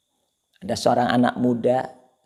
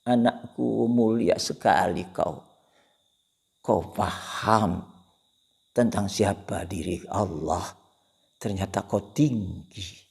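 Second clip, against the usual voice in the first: 1 tender mother. Acted. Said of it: "ibunya menangis".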